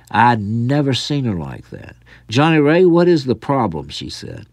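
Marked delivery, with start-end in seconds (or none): 2.3-3.9 enraged aunt. Acted. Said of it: "Aunt Susanna flew into a rage".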